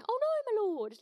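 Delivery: high hammed-up cry of dismay; mock cry. Shown as a demonstration. Preacher demoing servant's cry, hammed-up dismay. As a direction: ham up the lost axe cry. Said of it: "I don't know how else to say that".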